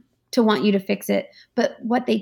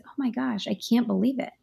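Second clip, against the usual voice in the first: much softer, hushed disbelief; soft shocked sympathy; 4 dB quieter than usual. Shown as a demonstration. Comforting a colleague, softly shocked and sincere. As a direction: breathe it out gently, taken aback. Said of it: "which is".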